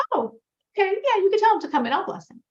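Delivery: high-pitched, quick giving in; meek concession. Retold or imitated. Rebbe yields to his older brother's scolding, meekly agreeing.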